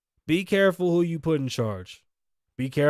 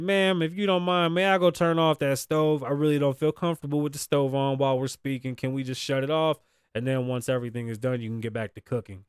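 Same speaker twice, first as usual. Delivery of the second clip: polite officer. Shown as a demonstration. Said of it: "That's the proper way to handle it".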